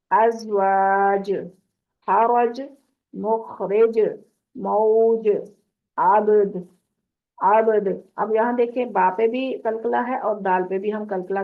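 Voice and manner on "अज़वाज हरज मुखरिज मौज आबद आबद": words cut short at the end with a bounce; stopped endings with qalqala. Shown as a demonstration. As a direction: stop each word on a silent last letter, echoing it. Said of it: "तो अब हम इसको साकिन कैसे करेंगे?". (क़लक़ला के साथ वक़्फ़)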